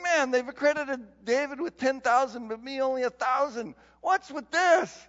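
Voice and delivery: a king fuming that David got the bigger praise; ticked-off king. Retold or imitated. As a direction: voice a jealous king's outrage. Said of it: "He's ticked".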